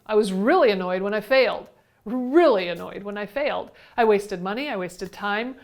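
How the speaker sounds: leaning hard on "really", irritated; annoyed. Retold or imitated. Teacher admitting she failed her exam, annoyed. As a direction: let remembered annoyance show in your voice. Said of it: "if you haven't already heard it in my voice".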